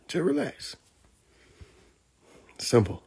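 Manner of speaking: breathy whispered relax. Shown as a demonstration. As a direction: whisper it like a secret. Soothing whispered closer.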